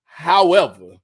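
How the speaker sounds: hammed-up bargaining with the Lord; mock prayer to the Lord. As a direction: call up to the Lord like a buddy. Acted prayer talking to the Lord.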